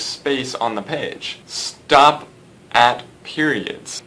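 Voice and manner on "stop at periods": "Stop", a pause, then a slow "at periods"; deliberate pauses. Shown as a demonstration. Teacher on how to read punctuation, deliberate pauses. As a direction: isolate "Stop" and set "periods" down slowly. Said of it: "Don't just randomly pause at the end".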